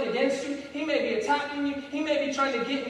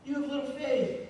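gentle correction. Retold or imitated. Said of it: "I prefer to look at this as a lesson".

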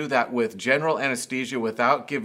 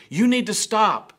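high, loud urgent command; frightened shout; 9 semitones higher, 5 dB louder than usual. Retold or imitated. Parent shouting at a child near traffic, frightened shout. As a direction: yell it as the car comes. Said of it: "emotion and fear that was also tied up".

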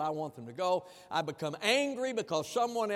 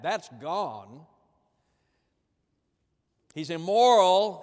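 indignant accusation; 6 dB louder, slower than usual. Retold or imitated. Elder brother accusing father.

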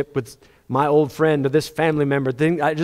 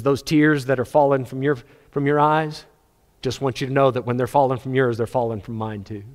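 tender Jesus voice; 3 semitones lower, 3 dB quieter than usual. Acted. Jesus comforting, tears falling.

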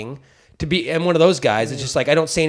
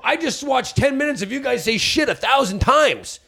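mock exasperation; 9 semitones higher than usual.

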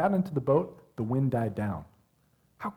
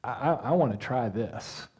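eager Peter; 4 semitones lower, 3 dB quieter than usual. Pretend. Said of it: "I love Peter's response".

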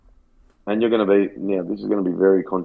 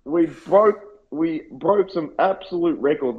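mock boast; 7 semitones higher, slower than usual. Mock boasting about records.

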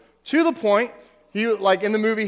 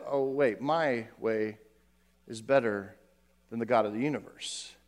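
mock smug aside; 8 semitones lower, 7 dB quieter than usual. Mocking the prideful inner voice.

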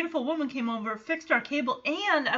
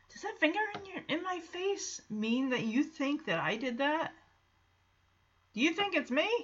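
mock innocence; 3 semitones higher, 7 dB quieter than usual. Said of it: "feigns innocence".

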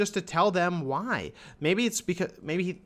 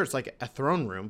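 ordinary delivery

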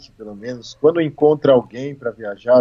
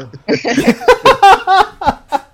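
loud, very high laugh; high burst of laughter; 5 dB louder than usual. Real, not acted. Laughs at the cold.

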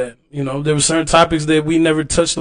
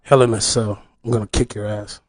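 wrestling promo; 5 semitones lower than usual. Pretend. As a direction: growl a heel's challenge at the champ. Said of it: "cut a promo right now".

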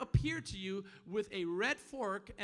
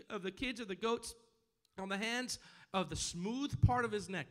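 raised, emphatic preacher's reading; scripture reading; 5 semitones higher, 4 dB louder than usual. Acted. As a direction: read the verse out to the congregation. Reads scripture aloud to congregation.

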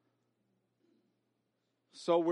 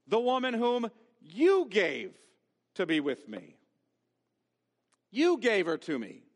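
Adam blaming God; 4 semitones higher, 5 dB louder than usual. Acted. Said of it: "Adam argues God".

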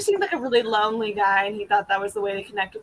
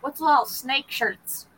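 southern drawl; 3 semitones higher, 3 dB quieter, slower than usual. Retold or imitated. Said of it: "some weird, like, southern drawl".

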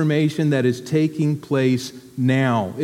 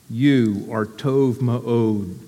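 tender; 4 semitones lower, much slower than usual. Shown as a demonstration. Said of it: "I say that often to Stephanie".

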